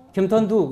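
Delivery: 겸턴두 with t where ch belongs; lisping the name 겸턴두 like a small child; tongue-tied lisp. Shown as a demonstration. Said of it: "혀 짧은 소리 있죠?".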